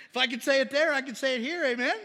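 loud, high-pitched call for agreement; rousing insistence. Real, not acted. Preacher pressing congregation for an amen, loud and insistent. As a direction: drive it home to the crowd, loudly.

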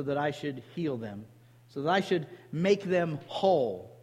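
solemn scripture read, slowing on key lines. Acted. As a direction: read the verse like a preacher. Reads scripture aloud.

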